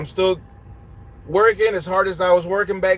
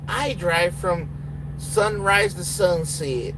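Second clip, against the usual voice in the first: slow, drawn-out mock quote; slow mock of a rookie's excuse; mocking a solo driver; much slower than usual. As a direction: stretch each word like a naive rookie. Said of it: "you can't come in here and say".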